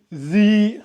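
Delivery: zi with the tongue bitten between the teeth; zi, tongue bitten, long i; biting the tongue. Shown as a demonstration. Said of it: "en mordant bien évidemment la langue".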